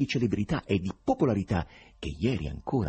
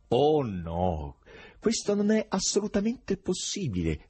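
emphatic, raised-pitch refusal; firm; 8 semitones higher than usual. A narrator's reading. Foreigner contradicting his companion's plans, firm. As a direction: rule it out firmly. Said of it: "rispose con fermezza il forestiero".

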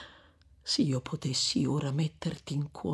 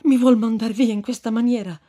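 pleading; 6 semitones higher, 8 dB louder than usual. Acted. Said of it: "in atto supplichevole".

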